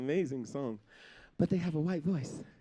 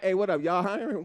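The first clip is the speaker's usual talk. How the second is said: casual slang voice. Pretend. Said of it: "we don't be like".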